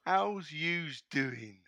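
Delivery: second-go West Country attempt, slow drawn-out ending; West Country accent. Host retrying after being told not quite, West Country accent. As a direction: have a careful try at West Country. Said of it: "the West Country accent".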